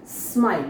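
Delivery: 'स्माइल' begun directly on s; a clean sm to open 'स्माइल'; correct 'स्माइल'. Shown as a demonstration. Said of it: "स्माइल है". ('स्माइल' बिना इ के, साफ़ स् से)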